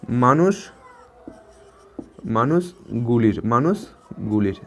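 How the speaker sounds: মানুষগুলির said very slowly, syllable by syllable; slow demonstration. Shown as a demonstration. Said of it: "গুলির সাথে কী যুক্ত হয়েছে". (ধীরে ধীরে মানুষগুলির)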